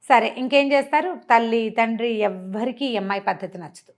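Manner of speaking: ordinary delivery, nothing marked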